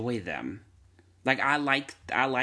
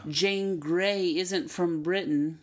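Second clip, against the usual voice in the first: slow, higher mocking fussy viewer; 6 semitones higher, much slower than usual. Speaker mocks viewers who fuss over accents. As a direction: mildly mimic a nitpicking moviegoer. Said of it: "Nobody's gonna watch that and say".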